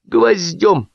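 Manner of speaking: high-pitched lament; mild acted woe; sorrowful, forced out. A narrator's reading. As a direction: squeeze out each grievance. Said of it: "горестно выдавил Лисипедов".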